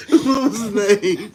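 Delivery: laughing while asking. Real, not acted. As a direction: ask through giggles. Both laughing over a comment name.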